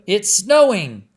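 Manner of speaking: very high, loud shout; boy spotting the snow; excited cry. Acted. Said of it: "cried Alan".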